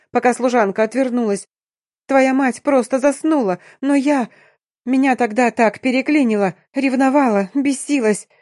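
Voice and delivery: cornered at gunpoint, confessing in tears; wailing confession. Acted. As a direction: pour it out in a sobbing rush. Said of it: "завыла ... созналась".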